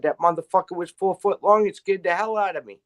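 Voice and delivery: mock alarm at what came out; retelling his shock. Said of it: "I said".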